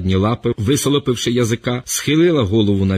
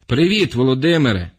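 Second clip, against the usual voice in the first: calling out; 3 semitones higher than usual. Acted. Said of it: "гукнув я через тин".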